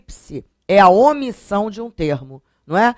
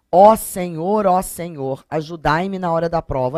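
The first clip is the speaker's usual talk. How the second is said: súplica encenada. Shown as a demonstration. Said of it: "você está interpelando o Senhor".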